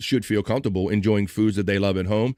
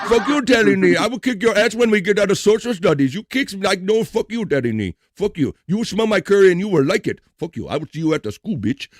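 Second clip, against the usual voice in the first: hammed-up schoolyard threats, higher and loud; mock kid fight; 8 semitones higher, 3 dB louder than usual. Kid snaps back at the bully over his curry, mock angry.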